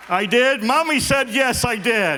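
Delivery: timid husband asking wife; unsure husband voice. Acted.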